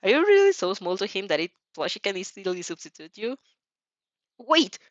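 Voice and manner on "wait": higher, startled exclamation; sudden acted surprise; suddenly shocked. A narrator's reading. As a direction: stop them short in shock. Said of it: "suddenly shocked".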